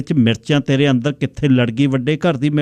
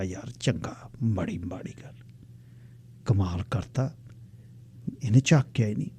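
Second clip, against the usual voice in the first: muttered aside; 4 semitones lower, 12 dB quieter than usual. Acted. Narrator mutters after being ignored.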